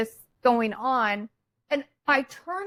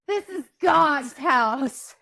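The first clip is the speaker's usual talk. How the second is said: indignant retold exclamation; 3 semitones higher, 4 dB louder, slower than usual. Retold outburst during the fight.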